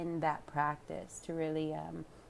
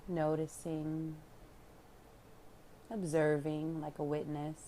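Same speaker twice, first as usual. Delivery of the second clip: unhurried calm guidance with long pauses; guided meditation; 3 dB quieter than usual. Real, not acted. Yoga teacher leading listeners into relaxation, calm meditation voice. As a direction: guide them inward, leaving room to breathe.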